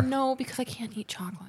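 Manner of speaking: trying not to cry; fighting back tears. Real, not acted. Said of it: "legit makes me wanna cry".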